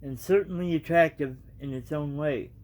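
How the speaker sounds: reading a storybook aloud, evenly; casual storybook reading; story narration. A narrator's reading. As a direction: tell the tale to your viewers.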